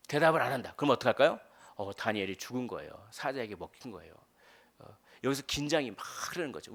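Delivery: ordinary talk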